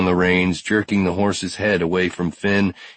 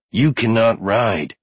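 slow, higher, forceful protest; emphatic objection; 5 semitones higher, slower than usual. Acted. Finn holds Brody's horse, slow emphatic objection. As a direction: lay down the law word by word.

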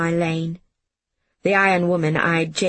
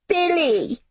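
shout; 11 semitones higher than usual. Acted. Jamie shouting after Billy on the train. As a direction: yell after his departing friend. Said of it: "he shouted".

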